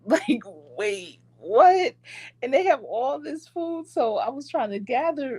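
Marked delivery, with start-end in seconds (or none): 0.8-1.9 high, rising "wait, what?"; double take. Retold or imitated. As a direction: sound caught off guard. Seeing all the food.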